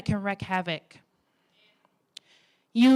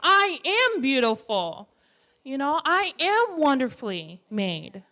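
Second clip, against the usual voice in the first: slow, firm and sure of yourself; like you mean it; 3 semitones higher than usual. Shown as a demonstration. Speaker shows women how to say it, convinced. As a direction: declare it with conviction. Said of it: "you say it like you mean it".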